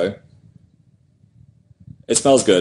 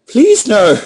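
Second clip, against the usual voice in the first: mock pleading; 8 semitones higher, 5 dB louder than usual. Mock plea, louder.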